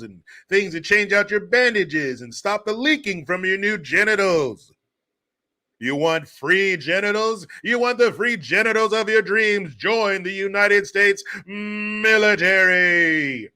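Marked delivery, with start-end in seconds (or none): 5.8-13.5 hammed-up recruiting ad, slowing right down on the last line; mock ad pitch. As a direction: sell it like a cheesy army commercial.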